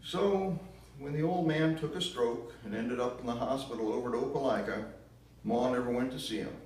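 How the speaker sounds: put-on southern narrator accent. Grandchild telling the audience about Ma, loud southern accent. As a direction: tell it like a Southern country storyteller, loud and high. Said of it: "a very strong southern accent".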